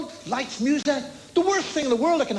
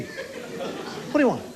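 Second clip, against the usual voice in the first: "What do you want?" drawn out very slowly, softer, half-whispered, stress on do; slow breathy repeat; 3 dB quieter, much slower than usual. Retold or imitated. Receptionist repeats herself to the patient, slow and hushed. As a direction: stretch every word out with contempt.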